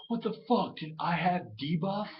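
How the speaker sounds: high, loud mock outrage; squeaky mock disbelief; mocking shocked gamer. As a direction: play the clueless player caught off guard. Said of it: "He's like".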